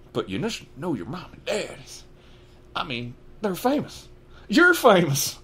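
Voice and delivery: high, rising disbelief; incredulous giant; astonished Hagrid. Acted. Hagrid amazed Harry doesn't know, rising disbelief.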